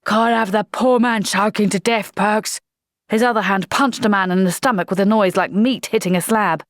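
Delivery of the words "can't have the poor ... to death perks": a touch of a bellow; hearty understated roar; mild roar. Acted. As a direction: sergeant roaring at Perks. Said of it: "Jackram's voice roared".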